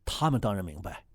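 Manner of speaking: 压低声音，像地下工作者递暗号; 低声神秘地交代任务; 悄悄话. Pretend. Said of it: "咱们说话小声点". (压低嗓音的秘密交代)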